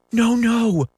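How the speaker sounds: very high pleading wail; high, piteous begging; piteous cry. A narrator's reading. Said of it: "they cried so piteously".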